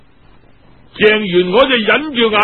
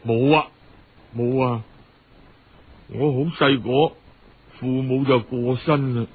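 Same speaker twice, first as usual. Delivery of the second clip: put-on sad orphan girl; 8 semitones lower, 4 dB quieter than usual. Orphan girl tells of parents' death.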